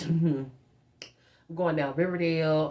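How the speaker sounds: slow, stretched words through a laugh; laughing, drawn out. Shown as a demonstration. Cruising down Riverdale in Mom's car, slow and laughing. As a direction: savor every word of it slowly, giggling.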